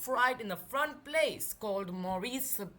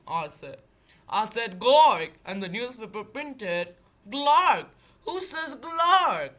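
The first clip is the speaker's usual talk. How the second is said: slow, louder complaining beast; Bigfoot voice; 7 dB louder than usual. Acted. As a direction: grumble it like a bear.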